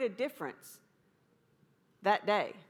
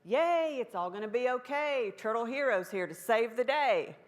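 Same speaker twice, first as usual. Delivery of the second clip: turtle voice; 2 semitones higher, 4 dB louder than usual. Retold or imitated. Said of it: "I've heard one of those turtles say".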